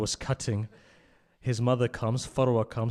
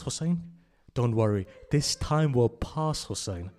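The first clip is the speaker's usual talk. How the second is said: comforting father. Acted. Father comforts his crying son.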